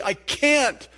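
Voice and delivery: a touch of despairing protest; mock despair. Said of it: "That's despair".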